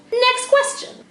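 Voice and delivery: high, loud shout of the heading; excited call. Acted. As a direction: belt it out like a show host. Calling out next question.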